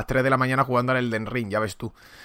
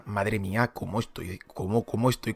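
raspy smoker's voice, real; gravelly voice; 3 semitones lower, 5 dB quieter than usual. Real, not acted. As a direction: croak it out through a sore throat. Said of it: "qué voz de fumador tengo ahora mismo". (voz ronca de fumador)

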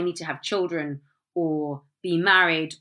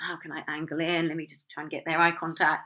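whispered inner thought; 3 semitones lower, 6 dB quieter than usual. Pretend. Voicing own thoughts in queue.

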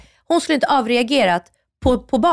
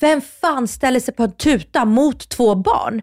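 indignant, drawn-out mock yell, slightly raised; angry retort; 3 semitones higher, slower than usual. Mother wanting to yell back at the driver, indignant mock shout. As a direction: stretch the words in outraged reproach, without a full shout. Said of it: "jag tänkte skrika till henne så här".

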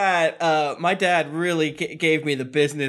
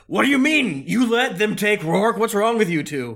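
shouting at party; 5 semitones higher than usual. Acted. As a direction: chew out the party members. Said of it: "as I'm shouting".

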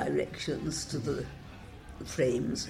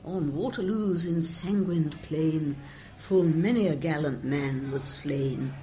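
reciting verse. Shown as a demonstration. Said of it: "which goes".

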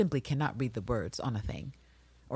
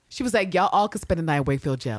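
usual speaking voice

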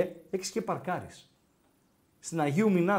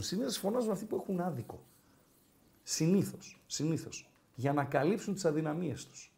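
1 quiet moralising; 6 dB quieter than usual. Real, not acted.

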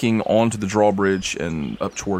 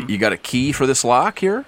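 guard asking; 4 semitones higher than usual. Acted. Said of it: "He says".

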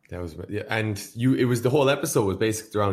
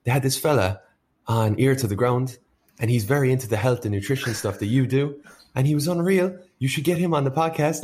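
excited Irish mammy, pitched up; eager, rising higher with excitement; mom voice; 4 semitones higher than usual. Retold or imitated. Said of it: "She's like".

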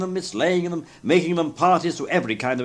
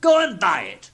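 high, exuberant shout; shouted order; 7 semitones higher, 5 dB louder than usual. A narrator's reading. Scrooge sends the boy for the turkey, shouting. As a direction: shout the command down to the street.

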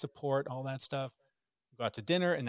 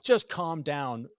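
slow, louder, clipped mock snap; retold outburst; 2 semitones higher, 5 dB louder, much slower than usual. Dad recalling how he snapped at his wife, mock angry.

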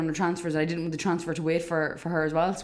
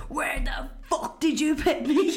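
whispered; 7 semitones higher, slower than usual. Retold or imitated. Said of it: "she rings Kyle and she's like".

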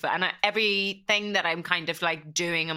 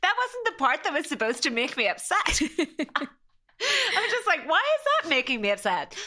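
pitched higher, laughing at herself while still teary; laughing through tears; 10 semitones higher than usual. Real, not acted. Guest laughing at her own crying, embarrassed and amused.

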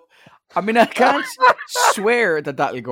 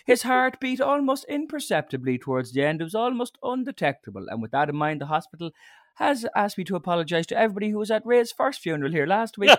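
lightly voiced priest going on; priest's eulogy; 3 semitones higher than usual. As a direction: priest continuing a silly eulogy. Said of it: "it's always that".

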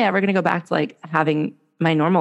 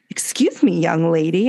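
mock scolding. Retold scolding of cursing mom.

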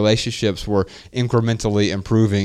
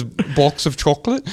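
mock British child's accent, rounded vowels; child's Peppa Pig British; 4 semitones higher than usual. Dad repeating daughter's pet phrase, mock Peppa Pig British accent. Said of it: "She says chocolate just like that".

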